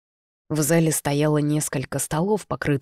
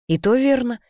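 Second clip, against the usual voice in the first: put-on old woman's wheezy agreement, pitched up; wheezed reply; 8 semitones higher, 4 dB louder than usual. A narrator's reading. Old passenger wheezes agreement to the young man. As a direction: rasp it out quickly, short of breath. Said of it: "тотчас просипела женщина".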